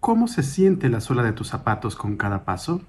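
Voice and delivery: calm, measured meditation guide, slightly softened; guided meditation. Acted. Guide leading a listener through a mindful walk, calm guided meditation. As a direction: guide them gently through each step, with long pauses.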